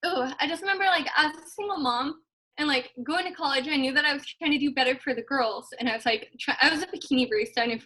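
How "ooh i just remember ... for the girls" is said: remembering being a struggling single mom, on the edge of crying; tearful. Real, not acted. Telling her story to the team while still teary. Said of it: "You're gonna make me cry".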